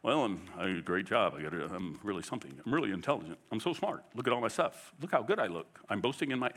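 low, soft self-satisfied bragger; mock boasting. Preacher imitating what we think boasting sounds like, mock bragging. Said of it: "we hear boasting, we think".

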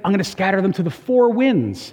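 put-on JFK Boston accent. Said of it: "I won't do the Boston accent".

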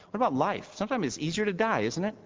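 preacher challenging the fearful; rousing preaching. Acted. Preaching rises again.

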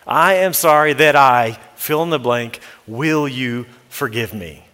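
owning it, softening into a gentle plea; sincere apology. Shown as a demonstration. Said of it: "we're owning our part first".

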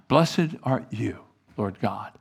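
slow, softening prayer; praying. Acted. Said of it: "that's what they would pray".

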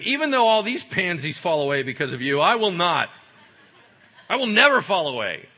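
loud, high, emphatic vow; defiant boast. Acted. Peter vows loyalty to Jesus above the others, boastful shout. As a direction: declare it forcefully over everyone else.

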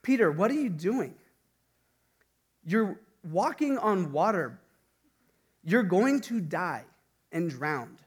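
Peter's fearful thoughts on the water, mildly acted; voice of doubt. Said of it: "lines of something like this".

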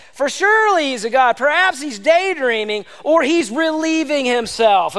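mocking. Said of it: "Elijah began mocking them".

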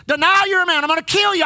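acted threatening demand. Preacher demonstrates gunman's threat to him, acted threatening demand. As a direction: play a gunman pushing for an answer. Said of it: "you say it like this".

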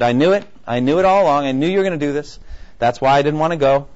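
Jonah throwing up his hands, annoyed; ticked-off Jonah. Retold or imitated. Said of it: "very ticked about it, very upset".

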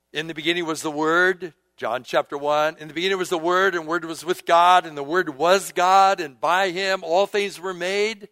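ringing declaration from the pulpit; preaching scripture. Real, not acted. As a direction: proclaim the verse, building in force.

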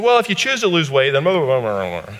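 high, singsong doctor impression; mock nonchalant. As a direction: airily toss it off, sliding into blah-blah. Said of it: "he made it so nonchalant".

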